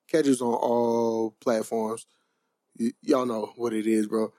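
high, slow and spaced out; stoned sign-off, drifting words; stoner voice. Real, not acted. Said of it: "I'm high right now".

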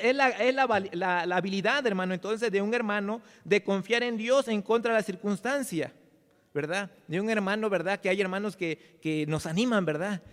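ordinary talk

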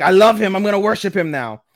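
high, loud gushing fanboy. Retold or imitated. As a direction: gush like he's found his idol. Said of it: "which was hilarious".

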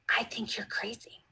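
soft retold whisper from the child. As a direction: breathe it quietly back.

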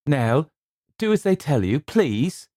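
high, loud anxious plea; pleading. A narrator's reading. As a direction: beg her to obey. Theodora pleading.

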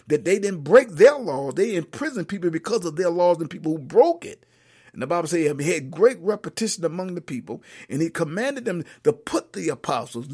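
emphatic sermon voice, key words stretched; preaching. Real, not acted. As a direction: preach it out loud to the congregation. Preaches a Bible message.

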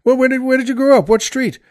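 high, fast, eager questioning; mock-excited stranger at the bar; eager pub fellow. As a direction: rush the question with rising delight. Joke character eagerly asking.

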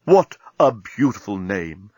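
slow, courtly compliment; captain complimenting Nettie, gallant. Acted. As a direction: charm her gently. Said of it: "said the gallant captain".

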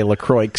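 "LaCroix" as luh-CROYKS; joke mispronunciation of LaCroix. Shown as a demonstration. Host joking about what few folks say, sounded-X pronunciation. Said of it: "Not a lot of folks say".

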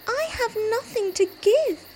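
high, soft little rabbit voice; a timid rabbit, downhearted; gentle sad rabbit. Acted.

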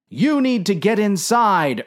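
high-pitched, pressing plea; urging. A narrator's reading. Dave pressing the captain to take cover, urgent. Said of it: "urged Dave".

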